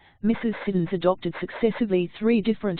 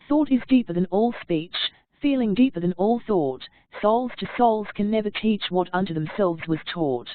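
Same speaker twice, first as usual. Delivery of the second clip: earnest reading. Shown as a demonstration. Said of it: "with great earnestness".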